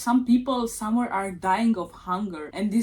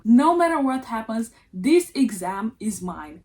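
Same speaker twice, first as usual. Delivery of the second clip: "No matter what happens" said louder with a firm push on "matter"; determined vow; 4 dB louder than usual. Retold or imitated. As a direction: declare "No matter what happens" like an unbreakable oath, hitting "matter". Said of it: "It's time to man up".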